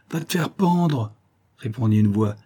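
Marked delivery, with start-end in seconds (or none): 0.1-1.1 high, slow dismissive curse; angry retort. A narrator's reading. Marauder rebuffs the officer through the door, angry retort. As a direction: send them packing, stretching the words.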